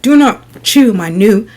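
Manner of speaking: slow, deliberate scolding; firm telling-off, each word spaced out; scolding the cat. Retold or imitated. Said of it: "that's why I clap loudly".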